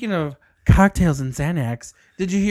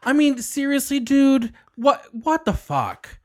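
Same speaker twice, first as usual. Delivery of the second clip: higher mock-exasperated scolding; mock mean mommy; 8 semitones higher than usual. Co-host acts a hippie mom scolding her kid, mock exasperated. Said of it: "example of mean mommy getting mad".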